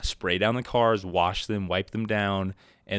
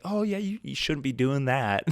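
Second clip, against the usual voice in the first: manager voice; 5 semitones higher than usual. Retold or imitated. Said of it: "she's like".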